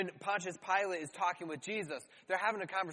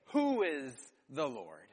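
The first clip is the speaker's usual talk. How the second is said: slow, scornful sneer at the question; mock Pharaoh's contempt; 5 semitones lower than usual. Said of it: "he responds almost in a mocking way".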